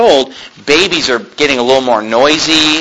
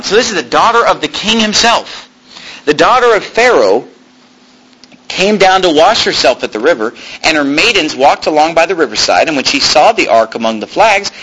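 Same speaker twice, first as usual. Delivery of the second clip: lifted, slightly higher reading voice; scripture reading; 3 semitones higher than usual. Acted. Preacher reads the Moses story aloud. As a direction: give the verses weight as you read.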